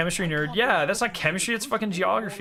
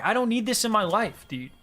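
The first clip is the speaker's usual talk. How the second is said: a mock-annoyed whine; exasperated outburst; 7 semitones higher than usual. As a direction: throw up your hands, done with them. Exasperated rant about rumour spreaders.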